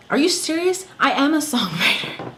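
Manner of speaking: real indignant shout; incredulous outrage. Real, not acted. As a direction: blast the disbelief out. Outraged rant about counselor.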